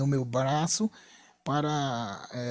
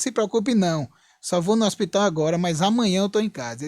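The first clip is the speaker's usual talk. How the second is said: higher-pitched, emphatic reassurance; insistent reassurance; 4 semitones higher, 4 dB louder than usual. Retold or imitated. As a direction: insist to the nervous wife that all is fine. Reassuring his now nervous wife. (tranquilizando a esposa com insistência)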